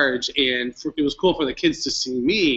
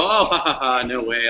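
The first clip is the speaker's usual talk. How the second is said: disbelieving laugh, no way; laughing in disbelief; 3 dB louder than usual. Retold or imitated. Laughs off ted invitation.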